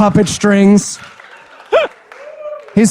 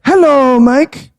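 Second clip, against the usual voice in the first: mock scene reading; 7 semitones higher, slower than usual. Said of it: "Let me read it".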